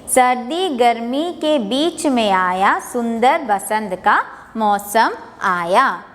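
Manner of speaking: sing-song classroom poem reading; poem recitation. Shown as a demonstration. Teacher reciting spring poem to class, sing-song. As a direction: recite with a lilting rhythm for kids.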